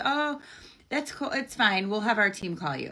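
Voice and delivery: high breezy fake-friendly voice, brushing it off; mocking the scammer. Podcaster imitating the scammer dodging her question, high and breezy. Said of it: "He goes".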